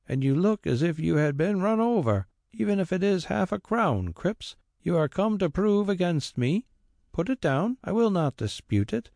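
put-on an old man humouring a fuss; tired old squire. A narrator's reading. Squire wearily humours the carrier.

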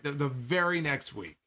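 normal talking voice

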